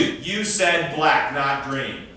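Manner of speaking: slow, pointed, accusing; a blunt correction in a mock argument; blunt accusation. Shown as a demonstration. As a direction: spell out each word like a charge. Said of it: "as opposed to".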